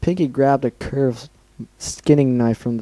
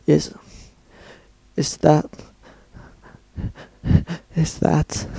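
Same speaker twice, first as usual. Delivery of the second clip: trailing off to a hushed breath; shocked stammer; 3 semitones higher, slower than usual. Acted. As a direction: stammer it in horror. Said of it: "Dash gaped in shock".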